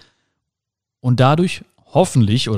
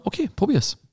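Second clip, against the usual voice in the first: higher, softer, airy encouragement; mock encouraging okay; 9 semitones higher, 6 dB quieter than usual. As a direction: nudge them gently to just try it. Encouraging someone to try it.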